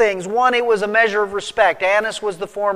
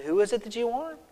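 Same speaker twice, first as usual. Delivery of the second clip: softer, hushed repeat of the question; quiet retelling; 3 semitones higher, 9 dB quieter, faster than usual. Retold or imitated. Jesus asking the soldiers a second time, quiet and hushed. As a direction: ask it again, gently and quietly.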